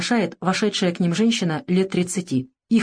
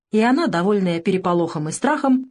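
plain reading voice

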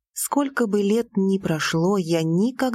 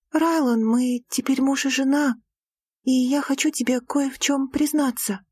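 put-on a young woman's voice, lightly higher; Lira's voice; 6 semitones higher than usual. A narrator's reading. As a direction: voice the heroine, a touch higher. Lira's confession. (голос героини, чуть выше)

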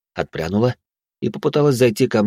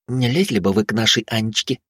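confiding. Acted. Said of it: "доверительно сообщила Вилли".

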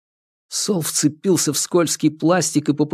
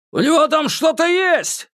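shouting. Acted. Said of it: "крикнул охранник".

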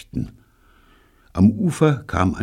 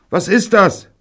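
very high, loud query; clueless question; 7 dB louder than usual. A narrator's reading. David puzzled by Neil's terms, high and clueless. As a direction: ask it high, with no idea. Clueless child asks over radio.

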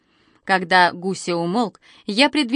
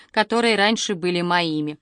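ordinary delivery

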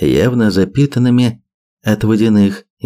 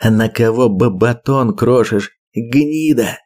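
gasping, gurgling with blood; bloody mouth; 2 semitones higher than usual. Acted. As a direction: spit it out, panting. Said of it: "пропыхтел задыхающийся охотник".

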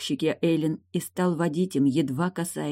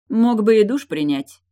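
loud, mocking jab; loud declaration; 6 semitones higher, 7 dB louder than usual. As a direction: call it out loud to mock him. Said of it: "громко заявила Тильда". (громко и насмешливо)

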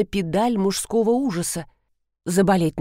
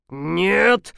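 growled no. Acted. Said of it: "зарычал полковник".

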